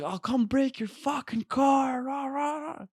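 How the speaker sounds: very high, slow mock threat; strained high imitation ending in rah-rah noises; mock yelling. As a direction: mimic a ranting stranger threatening, without real volume. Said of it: "And he was like".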